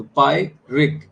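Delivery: पायरिक split slowly into पाय and रिक; slow teaching demo of पायरिक, syllables apart. Shown as a demonstration. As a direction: sound out पायरिक in two separate parts. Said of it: "पायरिक ये जो है again ये".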